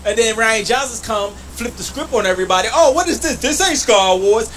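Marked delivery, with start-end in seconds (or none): 2.7-4.5 high, louder, scandalized whine; mock outrage. Streamer parodying fans upset by the new film, mock outraged. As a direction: whine like a betrayed fan.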